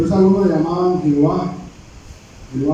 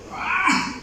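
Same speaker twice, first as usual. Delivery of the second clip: sharp "¡Ah!" jumping far higher in pitch; startled scream; 11 semitones higher, 4 dB quieter than usual. Shown as a demonstration. Preacher shows the cry on meeting a snake, high startled yelp. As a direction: yelp "¡Ah!" as if a snake just appeared. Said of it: "¿cómo usted diría?".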